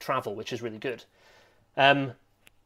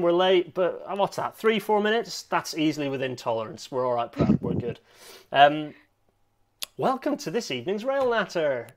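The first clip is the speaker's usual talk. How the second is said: normal talking voice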